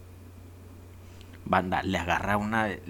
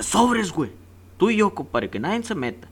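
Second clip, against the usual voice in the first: higher, cocky mock hero voice, lightly done; cocky Gandalf; 9 semitones higher than usual. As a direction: toss out the challenge like a swaggering old wizard. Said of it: "Y le dice bien mamalón". (Gandalf chulo y retador, imitado a la ligera)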